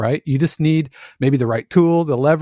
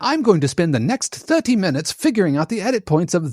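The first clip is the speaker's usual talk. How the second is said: sarcastic editor; 6 semitones higher than usual. Retold or imitated. Mocking an editor's sarcastic complaint.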